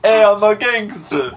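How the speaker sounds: loud, high, slow fake Boston voice; Boston caricature, drawn out; hammed-up Boston accent. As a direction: play a cartoon Boston gangster. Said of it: "Boston is like".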